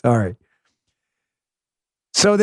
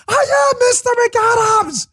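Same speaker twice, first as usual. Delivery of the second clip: pissed-off mock shout. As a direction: imitate an exasperated guest screaming his own name. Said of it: "it gets really pissed off".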